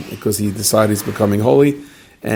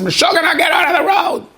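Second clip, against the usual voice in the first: shouted warning. Retold or imitated. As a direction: bellow it at the fool blocking the road. Driver yells at man on road.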